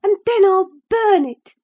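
put-on stamp each word out like a sulking child; childish spite. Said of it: "with childish spite".

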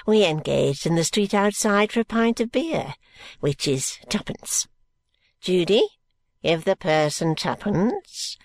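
put-on slow, gasping, wheezing old man; a decrepit old miser catching his breath. Grandfather Smallweed greeting George, slow and gasping.

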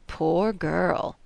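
a lightly voiced old man savouring mock pity; relishing pity. A narrator's reading. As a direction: sigh over her while enjoying the memory. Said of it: "in the tone of one who, while enjoying the memory".

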